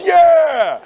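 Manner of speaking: high, loud crowd-style whoop; be the whole table cheering; group cheer. Retold or imitated. Everybody at the bar answering the cheer with a loud whoop. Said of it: "And everybody goes".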